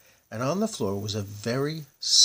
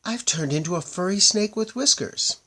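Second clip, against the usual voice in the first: high, loud horrified cry; 10 semitones higher, 6 dB louder than usual. A narrator's reading. Hinchati seeing herself as a furry snake, horrified. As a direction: cry out in horror. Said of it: "screamed Hinchati".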